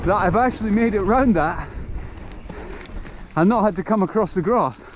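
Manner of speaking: real joy at making the turn; delighted. Real, not acted. First clean run round the section.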